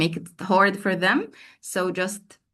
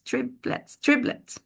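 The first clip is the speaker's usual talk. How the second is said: whispered; 6 semitones lower than usual. Shown as a demonstration. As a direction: whisper triplets twice, unvoiced. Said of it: "And they say the word triplets".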